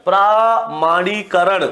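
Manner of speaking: प्रामाणीकरण drawn out slowly syllable by syllable; slow dictation of प्रामाणीकरण; slow spelled-out word. Shown as a demonstration. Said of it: "प्रामाणीकरण नहीं होता".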